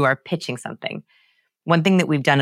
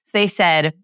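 normal talking voice

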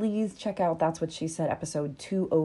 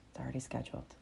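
calm reply; 4 semitones lower, 15 dB quieter, faster than usual. Acted. Calm answer to panic.

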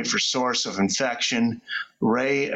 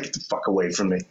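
bitter snarl; 6 semitones lower, faster than usual. Pretend. Brother's bitter retort.

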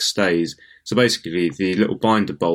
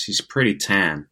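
fifties American; slower than usual. Retold or imitated. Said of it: "as the Americans would say in the fifties".

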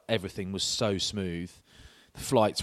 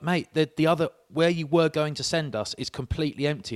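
exasperated complaint; 7 semitones higher, 5 dB louder than usual. Retold or imitated. Retold complaint to border officer.

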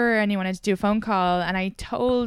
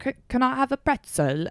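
imitating a bad British accent, pitched higher; put-on British accent; 5 semitones higher than usual. Mimicking a date ordering bar snacks, put-on British accent. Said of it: "he put on a British accent".

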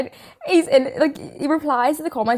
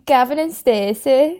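slow, louder attempt at Welsh; Welsh accent; 5 dB louder, slower than usual. Shown as a demonstration. Offering an example of Welsh to a friend, mock Welsh accent. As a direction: put on Welsh for the show's name. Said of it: "Can you do a Welsh accent?".

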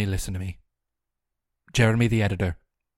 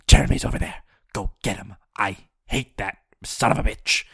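gruff neighbor voice; 4 dB louder than usual. Pretend.

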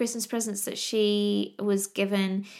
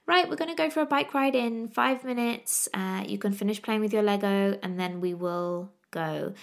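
bright mum prep voice. Retold or imitated. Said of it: "I try and do the whole preparing thing".

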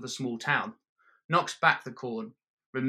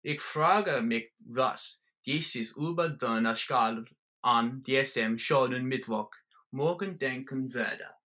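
slow, soft German words; soft German musing; slower than usual. Acted. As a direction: muse slowly as if reading from the ball. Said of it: "says softly".

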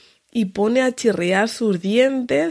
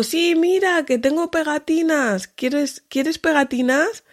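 high, sweet, coaxing tone; coaxing mum voice; 7 semitones higher than usual. Retold or imitated. Mother luring her daughter with stickers, high and sweet. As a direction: tempt a toddler with stickers.

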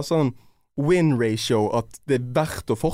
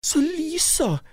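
slow dramatic build; 14 semitones higher, slower than usual. Real, not acted. Building to the reveal.

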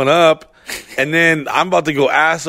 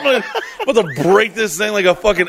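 laughing rant; 4 semitones higher than usual. Real, not acted.

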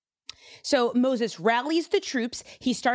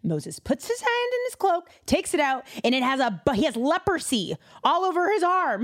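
ordinary delivery

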